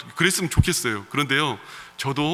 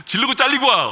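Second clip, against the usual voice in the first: forceful command; 10 semitones higher, 5 dB louder than usual. Retold or imitated. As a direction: belt out the wife's blunt dare. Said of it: "아주 강렬하게 한마디를". (아내가 남편에게 강하게 외치는 말투)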